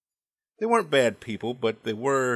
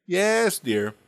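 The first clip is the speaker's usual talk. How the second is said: placating husband, emphatic YES; 6 semitones higher, 4 dB louder than usual. Retold or imitated. Dad humouring his wife, emphatically placating. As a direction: lean hard on YES, mock-obliging. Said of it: "saying some variant of".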